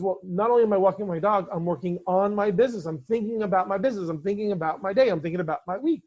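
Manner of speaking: lightly acted excitement, building a list; super excited. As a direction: imitate an eager client reporting in. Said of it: "he was super excited now".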